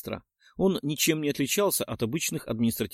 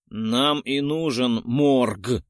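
slow, louder grumble; grumbling; 4 dB louder, much slower than usual. Acted. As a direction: grumble it out slowly. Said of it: "проворчал я в ответ".

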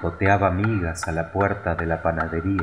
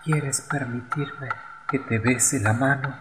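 swallow's voice; 6 semitones higher, 4 dB quieter than usual. A narrator's reading. Dying swallow asks a kiss.

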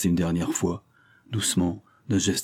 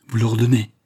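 louder, rallying exclamation; roused out of despair, louder; suddenly revived; 3 semitones higher, 5 dB louder than usual. Acted. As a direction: cry out with new heart. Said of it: "s'écria-t-il, soudain ranimé".

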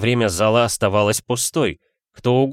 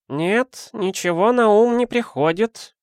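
put-on much higher old lady voice; an elderly woman shaking her head; 12 semitones higher, slower than usual. A narrator's reading. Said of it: "Старуха посмотрела на письмо".

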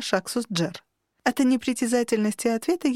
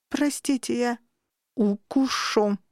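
menacing growl; 2 semitones higher, slower than usual. Acted. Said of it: "Грянул в голове грозный рык".

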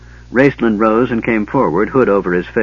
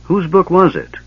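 higher, wary and doubting; suspicious question; 8 semitones higher, 3 dB louder than usual. A narrator's reading. Caramon doubting his twin about the book, suspicious. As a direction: ask it like you smell a trick. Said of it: "Caramon asked suspiciously".

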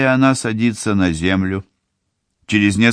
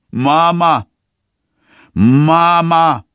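calling out; 10 semitones higher, 5 dB louder, much slower than usual. A narrator's reading. Daughter calling mother through fence.

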